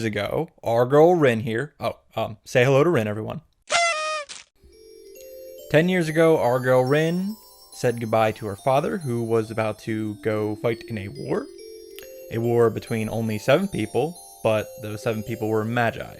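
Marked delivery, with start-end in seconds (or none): 5.7-16.2 softer, measured storytelling; solemn flashback narration. Acted. Recapping a father's farewell to his daughter, solemn narration. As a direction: recount the backstory with mock gravity.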